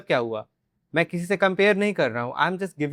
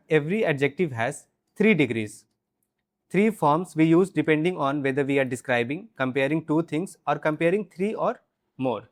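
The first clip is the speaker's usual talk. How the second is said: slow teaching read; much slower than usual. Shown as a demonstration. Slow English explanation.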